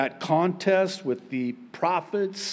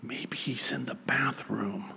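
whispered mock aside; 7 dB quieter than usual. Elijah mocking the prophets of Baal, sly whisper. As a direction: hush it like a sly joke. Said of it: "he actually mocks them and says".

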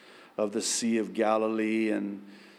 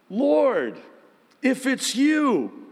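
voiced Peter; 11 semitones higher, 4 dB louder, slower than usual. A narrator's reading. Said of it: "Peter replied".

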